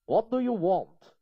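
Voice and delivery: Charles asking. Acted. Charles asks God.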